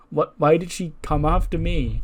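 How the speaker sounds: a touch of bewildered protest; mock shock. Mizuki reacts after being threatened, mildly shocked. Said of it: "sort of just looks shocked".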